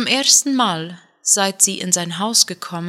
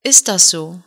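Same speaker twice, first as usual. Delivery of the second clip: louder mocking sneer; 5 dB louder than usual. Son mocking his father's inheritance test, sneering. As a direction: throw it back with a sneering grin. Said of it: "Er grinste höhnisch".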